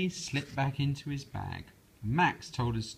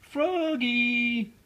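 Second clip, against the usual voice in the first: much higher, louder call; 12 semitones higher, 6 dB louder than usual. Acted. Mother calling Froggy back, loud call. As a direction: call him from across the house. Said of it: "called his mother".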